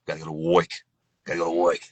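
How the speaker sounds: put-on "work" said as "woik", old New York style; New York accent. Shown as a demonstration. Narrator demonstrating for listeners, New York accent with "work" as "woik". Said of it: "when it comes to New York".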